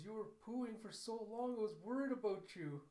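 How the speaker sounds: put-on high-pitched little girl voice; child's voice. Little girl tells her father she was worried, child's voice. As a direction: pipe up like a worried little kid.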